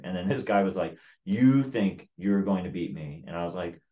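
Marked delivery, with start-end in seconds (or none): 1.2-3.2 slow, louder disbelieving challenge; mock incredulity. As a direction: imitate a scornful rival, spacing the words out. Retold chief's incredulous challenge.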